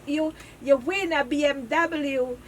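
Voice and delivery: slow, laughing scam pitch; scammer voice. Retold or imitated. Scammer asking for the account number, slow and giggly. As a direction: drag out the fake offer slowly. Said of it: "I say".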